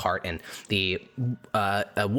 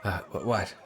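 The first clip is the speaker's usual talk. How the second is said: startled scholar. Acted. GM voicing startled Democritus.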